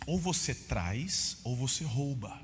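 slow, heavy stress on both halves; preacher laying down a stark either-or; stressed slow choice. Real, not acted. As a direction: spell out the two options, hammering ou. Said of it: "Dízimo ou você traz".

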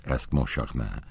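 ordinary delivery, nothing marked

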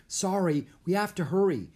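high, hurried apology; yelling back. A narrator's reading. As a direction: call back over your shoulder. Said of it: "Jack yelled".

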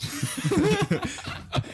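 high, odd animal-call laugh; Wookiee-like laugh. Real, not acted. Laughing at the mating-call joke, high creature laugh. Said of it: "It's a Wookiee".

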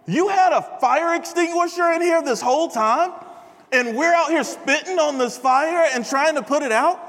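high-pitched acted disbelief; mock indignation. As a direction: imitate an exasperated friend calling someone out. Acted disbelief at friend in story.

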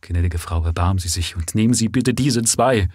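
a touch of a trembling, agitated plea. Acted. Father begging the lady to take his boys, lightly trembling. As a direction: beg her gently, barely holding together. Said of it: "bat zitternd vor Erregung".

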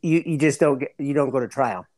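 ordinary talk, nothing marked

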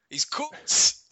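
English accent, hammed-up; mock English commentator. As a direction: Coates in an English accent, shouted up high. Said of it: "English commentators calling".

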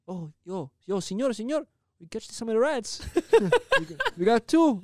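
high, loud excited coworker voice; a coworker bursting in with rat news. Retold or imitated. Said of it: "he's, like, an Italian guy".

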